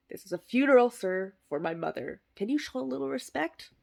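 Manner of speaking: huffy, put-upon rebuke; mock indignation. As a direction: scold the heckler. Indignant scolding.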